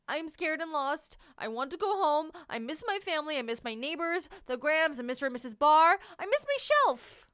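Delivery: tearful and high, breaking at the end; sniffling. Acted. Lost marshmallow tearfully telling his new friend. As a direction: plead through sniffles. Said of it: "through his sniffling".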